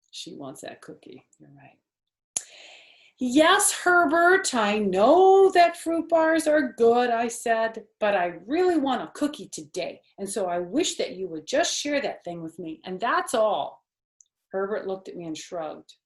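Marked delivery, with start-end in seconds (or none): 3.2-13.9 put-on high, loud bouncy little girl; Junie B. voice. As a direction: play a bold six-year-old showing off. Junie B. hinting for cookie.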